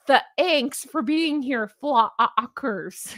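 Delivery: "thanks" and "flockers" each split mid-vowel; mock mispronunciation. Shown as a demonstration. Host mocking Spa Ace to her viewers, deliberately broken-up pronunciation. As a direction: break "thanks" and "flockers" into extra syllables. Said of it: "only gonna pronounce things like that".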